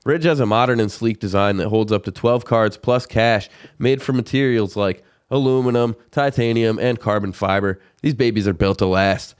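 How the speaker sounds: upbeat sponsor read. Acted.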